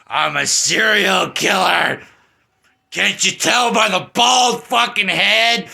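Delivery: hammed-up whiny killer voice, loud then sulky; mock the bald villain as a childish crybaby; mock Michael Myers. Mocking Michael Myers whining about his mask, hammed-up. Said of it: "Let's just put it on".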